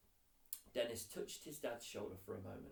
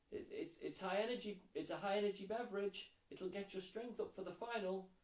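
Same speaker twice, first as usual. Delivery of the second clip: higher, pushy mother's voice; insistent mum; 8 semitones higher, 3 dB louder than usual. Acted. Mum insisting the boys drink Lucozade, high and pushy. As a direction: press the drink on them, won't take no. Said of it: "came the insistent reply".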